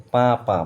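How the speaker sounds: "পা পা" with the vowel nasalised, as if written with chandrabindu. Shown as a demonstration. Teacher showing how some people say it, "পা" with a nasal vowel. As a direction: say "পা পা" through the nose, like পাঁ. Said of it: "পয়ে চন্দ্রবিন্দু আকারে পা বলে".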